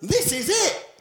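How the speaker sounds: hammed-up terror shout; mock panic. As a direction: yell it as a man clinging on for dear life. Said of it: "He's going".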